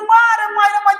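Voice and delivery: half-hearted imitation of people crying out; mild mock yelling. Teacher imitating people beaten by police in lockdown, mock yelling. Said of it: "चिल्लाने लगता था सब".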